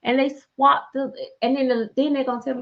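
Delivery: ordinary delivery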